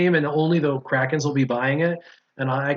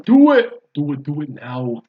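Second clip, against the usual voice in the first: urging shout; 5 dB louder than usual. Real, not acted. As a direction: yell it to egg him on. Urging friend to show characters.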